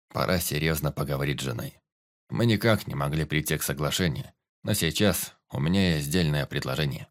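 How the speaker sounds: low warrior voice; warrior Тирот, earnest. Acted.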